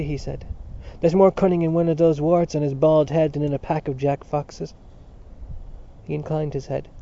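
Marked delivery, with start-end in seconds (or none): 1.0-4.7 louder, jovial Irish father holding court; hearty Mr Dedalus. Acted. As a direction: boom it out like a genial host at home. Narrator voices Mr Dedalus.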